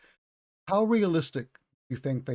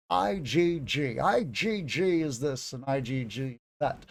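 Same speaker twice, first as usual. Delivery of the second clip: slow droning lecture voice; monotone professor imitation; slower than usual. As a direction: ramble on slowly and flatly. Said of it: "the way he would talk".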